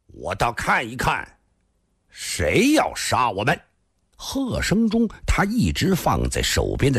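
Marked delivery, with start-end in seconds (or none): 0.1-3.6 deliberate defiant dare; mildly defiant, drawing out the threat; challenging. Acted. Spearman daring the killer to appear, defiant. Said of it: "突然大喝一声".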